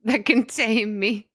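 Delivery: drawn out and amused; slow, savoring. Acted. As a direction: savor each word slowly. Repeating the quote slowly.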